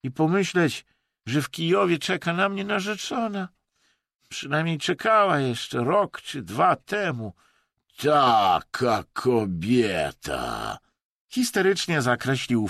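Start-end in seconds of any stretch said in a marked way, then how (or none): 0.0-10.8 mournful lament. A narrator's reading. Russian laments his fiancée.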